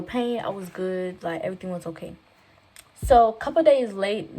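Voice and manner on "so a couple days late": a couple days late, said with the word late cut short by mistake; slip of the tongue. Real, not acted. Telling her story, she trips over the word. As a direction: misspeak late for later, then stop.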